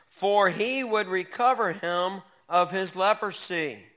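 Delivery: slow, measured Bible reading; scripture reading. Acted. Teacher reading Second Kings to young people, slow formal scripture read. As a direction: read the verse out slowly and with weight. Reads scripture aloud to youth.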